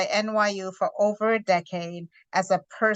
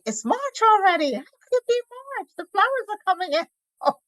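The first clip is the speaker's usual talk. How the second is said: surprised; 12 semitones higher than usual. Retold or imitated. Acted self-quote of disbelief.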